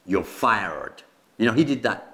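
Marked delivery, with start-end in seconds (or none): 0.0-1.0 slow, low catchphrase impression; Donald Trump. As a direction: lightly mimic the boss's TV catchphrase. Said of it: "This is Donald Trump's favorite, uh, phrase".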